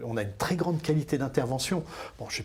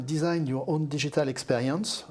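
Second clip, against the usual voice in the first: English programme title read with a French accent; apologetic French-accented English. Real, not acted. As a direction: say the English name the way a French speaker would. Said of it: "je suis désolé pour mon accent anglais".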